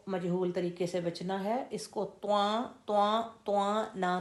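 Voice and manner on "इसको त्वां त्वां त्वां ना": त्वां with the sound pushed into the nose; nasal wrong त्वां; wrong nasal reading. Shown as a demonstration. Teacher showing students the mistake: nasal त्वां. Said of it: "तो इसकी sound नाक में जाएगी".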